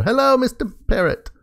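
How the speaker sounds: squeaky high hello; high pet voice. Acted. Greeting the parrot at the base in a high voice. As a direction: chirp it up high like baby talk.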